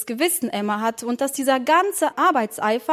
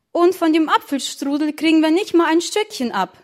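put-on higher-pitched grumble of a child; complaining; 5 semitones higher, 4 dB louder than usual. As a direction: complain indignantly, pitch raised. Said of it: "beschwerte sich Charlie". (beschwerend, mit gehobener Stimme)

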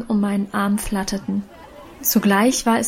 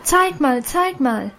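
excited cries; 4 semitones higher, slower than usual. A narrator's reading. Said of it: "schrien die anderen Mädchen nun auch aufgeregt".

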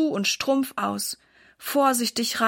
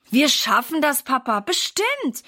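mild firm assurance; 3 semitones higher than usual. Acted. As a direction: promise it firmly. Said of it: "bekräftigt Sarah".

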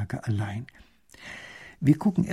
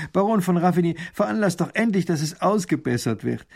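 impatient order; 5 semitones higher than usual. Acted. Duke commands the minister.

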